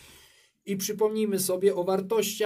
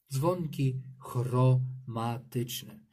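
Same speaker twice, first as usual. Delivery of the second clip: slow, clear naming; 4 semitones lower, much slower than usual. Shown as a demonstration. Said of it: "Jest też inna nazwa".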